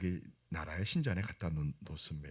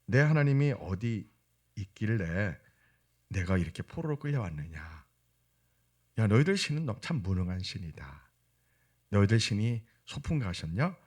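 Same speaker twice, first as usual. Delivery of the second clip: mildly jeering retold taunt; mocking. Heathen captors taunt the exiled believer, mildly mocking. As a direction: imitate scoffers needling a captive believer. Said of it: "비웃으면서 하는 말이".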